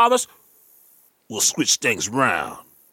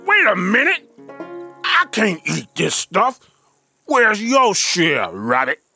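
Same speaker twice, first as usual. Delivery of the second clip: confused; 3 semitones higher, 4 dB louder than usual. Acted. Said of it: "Bear was confused".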